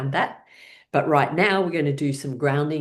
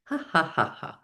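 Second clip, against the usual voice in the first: voiced laughing ha; 2 semitones higher, 4 dB quieter than usual. Shown as a demonstration. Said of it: "laughing tree roots".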